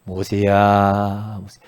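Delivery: long-drawn, level, resonant summons; God calling. Acted. God calls to old Moses at Horeb, solemn summons. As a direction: stretch the name slowly, then let it drop. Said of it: "하나님의 음성을 들어요".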